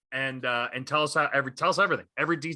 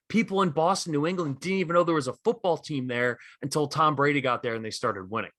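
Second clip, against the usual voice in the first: A rapper being rational; 2 semitones higher than usual. Retold or imitated. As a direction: concede the point calmly, pitched up. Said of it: "He's like".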